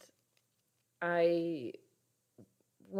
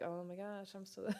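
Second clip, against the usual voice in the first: incredulous laugh; 6 semitones higher than usual. Retold or imitated. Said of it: "You're like".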